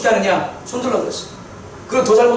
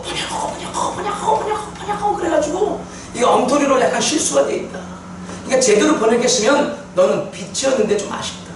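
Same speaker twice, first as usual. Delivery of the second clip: mocking inner ego voice; 3 semitones higher than usual. Preacher voicing his skeptical ego to the congregation, lightly mocking. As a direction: play his own doubting self scoffing at the Bible. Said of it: "내 자아는 이렇게 말하는 거예요".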